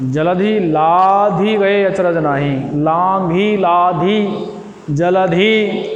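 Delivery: drawn-out "जलधि लाधि गए अचरज नाही" with every syllable spaced; slow careful recitation. Shown as a demonstration. Teacher slows the verse so pupils hear "जलधि" exactly. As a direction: say "जलधि" slowly as ja-la-dhi, each syllable separate. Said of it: "जैसे आप हनुमान चालीसा पढ़ते हो".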